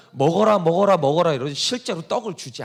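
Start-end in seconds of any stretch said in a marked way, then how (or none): 0.1-1.3 a bit louder repeated urging to eat; Satan urging. Retold or imitated. Satan urging Jesus to eat in the temptation, insistent. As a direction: push the food at them. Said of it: "그 시험에서 사탄은".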